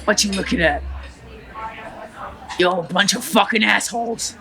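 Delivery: put-on lightly Cuban-accented gangster rant; defiant Scarface tirade, a hint of accent; Tony Montana. Tony Montana sneering at the restaurant crowd, light Cuban accent. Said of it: "to Tony Montana".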